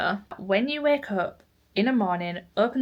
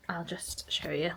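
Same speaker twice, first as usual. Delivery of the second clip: whispering; 9 dB quieter than usual. Real, not acted. Quiet aside to camera.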